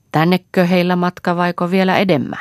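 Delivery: high, loud sing-out question; calling out. A narrator's reading. Tulija huutaa kysymyksen vaikeneville vieraille. (korkealla, kovalla äänellä huudettu kysymys)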